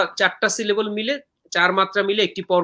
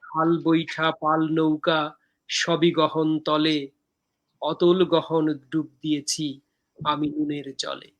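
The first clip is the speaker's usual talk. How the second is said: slow, measured verse with pauses between lines; poem recitation; slower than usual. Acted. Poet reciting own poem from Dehokabyo to viewers, measured recitation.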